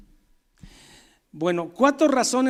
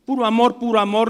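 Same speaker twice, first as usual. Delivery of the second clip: mock hippie; 3 semitones higher, 3 dB louder, faster than usual. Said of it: "un evangelio hippie".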